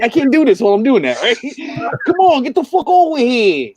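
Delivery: put-on slipping into a loud New York accent. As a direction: drop the British and go full New York. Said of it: "he's reverting back to New York".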